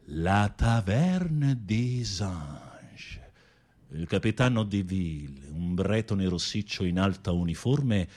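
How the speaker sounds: dreamy, dramatic storytelling over music; film story narration. Acted. Telling a friend the film's plot, dramatic narration. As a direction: paint the scene like a romance novel.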